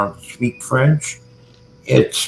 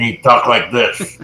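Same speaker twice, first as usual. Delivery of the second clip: lightly demonstrated side-of-the-mouth speech; Prime Minister Chrétien. Shown as a demonstration. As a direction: push the words out one side of the mouth. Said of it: "talk to the side of his face like this".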